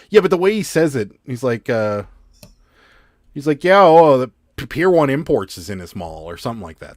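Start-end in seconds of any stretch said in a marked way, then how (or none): 3.6-6.3 put-on sing-song whine, Minnesota accent. Imitating how someone in a movie says a store name: imitating a whiny, almost-minnesota accent. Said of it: "kind of mixing it with a Minnesota accent".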